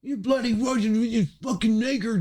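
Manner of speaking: high, loud mock European accent; mock Swiss racist. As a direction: ham up a rude Swiss guy yelling slurs. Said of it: "the way he was talking to me".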